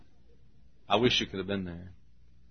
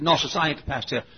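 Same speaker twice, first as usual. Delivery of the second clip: quick, higher Southern dialect; imitated Southern deacon; 4 semitones higher, faster than usual. Deacon saying he is not pastor, quick Southern dialect. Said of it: "This is the way all of us Southerners talk".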